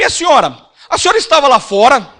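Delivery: very loud, high-pitched delivery. Retelling his reply to the old woman in the queue: imitating her loud tone. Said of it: "no mesmo tom de voz dela".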